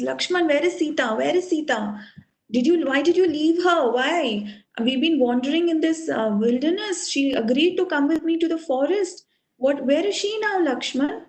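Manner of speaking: mildly acted distress over a lost wife; anguished lament. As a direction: lament with question after question. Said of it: "he starts lamenting".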